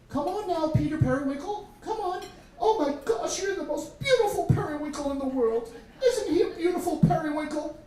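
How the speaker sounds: put-on high, gushing little-girl voice; five-year-old sister. Little sister adoring her pet periwinkle, gushing high. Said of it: "and she'd always talk to it".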